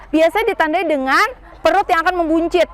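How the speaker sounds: ordinary talk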